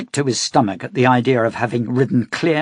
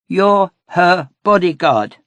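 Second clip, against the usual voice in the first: put-on high, loud, slow girl's insistence; a little girl pressing her point hard; insisting girl; 8 semitones higher, 7 dB louder than usual. A narrator's reading. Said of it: "she insisted".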